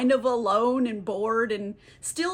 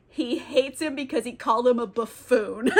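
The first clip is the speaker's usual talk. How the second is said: amused laughter. Real, not acted. Amused by the absurd grudge.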